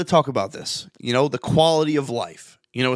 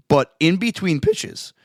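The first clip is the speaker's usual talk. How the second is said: real pubescent-style voice crack; 4 semitones higher, slower than usual. Real, not acted. Coach explaining baseball to co-host, voice cracking. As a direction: let the voice crack upward mid-phrase. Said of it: "his voice is cracking left and right in here".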